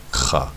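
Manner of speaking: "Cha" alone with a throaty kh; isolated syllable. Shown as a demonstration. Teacher sounds out the last syllable, isolated syllable. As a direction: set "Cha" apart as one syllable. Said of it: "that's one syllable".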